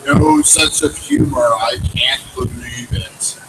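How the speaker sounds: slow, lightly booming Lord; mild thundering. Acted. The Lord scolds Abraham, a slow mild thunder. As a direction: grumble slowly in mock thunder. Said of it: "And the Lord thundered".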